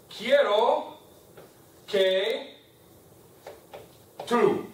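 words spaced out one by one; slow dictation. Shown as a demonstration. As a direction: say each word slowly as if dictating. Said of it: "teacher dictates phrase word by word".

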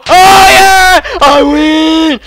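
high, loud triumphant yell; victory shout. Real, not acted. Gamer winning the round, jubilant shouting.

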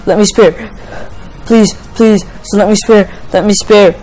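urgent, repeated begging; frantic pleading. Real, not acted. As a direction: plead desperately, word after word. Frantic begging during the game battle.

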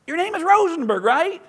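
rock DJ grilling the guest about his name; dude radio host. Retold or imitated. Radio host quizzing the author on his Jewish name, high and loud. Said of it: "he says".

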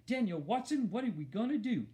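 high-pitched worried mother. A narrator's reading. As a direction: demand an answer, fretting. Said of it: "when she got worried".

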